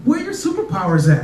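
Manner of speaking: lightly voiced curious little girl; little daughter voice. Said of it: "so she's like".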